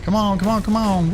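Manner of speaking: pumping himself up, tense; psyching myself up. Real, not acted. Urging ship during pirate fight.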